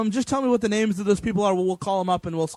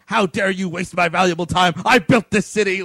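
hammed-up indignant tirade, a bit louder; mock berating; 5 dB louder than usual. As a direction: imitate a man berating officials. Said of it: "he's all fucking berating them".

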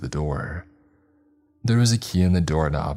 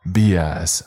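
loud angry shout; 5 dB louder than usual. Acted. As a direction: yell it at him. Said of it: "I shouted".

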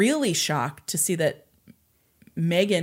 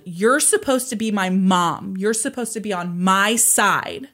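retold yell; 3 semitones higher, 5 dB louder than usual. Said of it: "and yelled".

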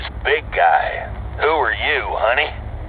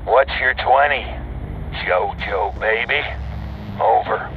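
over walkie talkie. Acted. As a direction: demand it over the CB. Trucker over CB.

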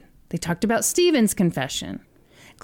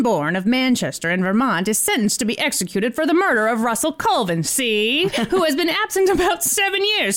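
put-on old-timey voice. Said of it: "should I do it in an old-timey voice".

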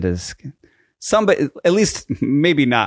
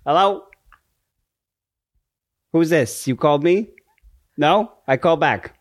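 lightly attempted Italian accent, broken English; halting broken English with a hint of Italian; faked Italian accent. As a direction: prank caller faking Italian, badly. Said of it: "like, an Italian accent, but then you, like, had broken English".

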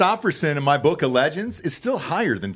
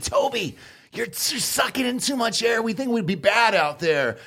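mock army examiner; 7 semitones higher than usual.

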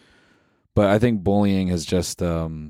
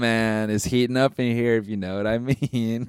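higher bro voice with a laugh; teasing buddy; frat bro; 4 semitones higher than usual. Pretend. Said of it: "Jesus is like".

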